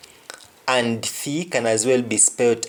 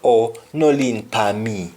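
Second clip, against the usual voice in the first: "No lean depan me" in a Jamaican Patois lilt; a mild Patois request. Shown as a demonstration. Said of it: "an example would say".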